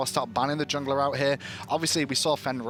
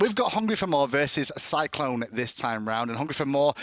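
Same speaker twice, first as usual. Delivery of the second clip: monster truck voice; 2 semitones lower than usual. Shown as a demonstration. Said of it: "with your monster truck voice".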